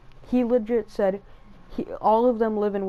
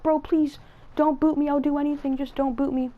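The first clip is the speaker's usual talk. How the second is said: mock begging; 6 semitones higher than usual. Kids begging not to be booted.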